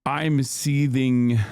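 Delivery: slow, deadpan fake seething; sarcastic mock rage. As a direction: drag it out, plainly not angry at all. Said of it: "my face of, yeah, unbridled rage".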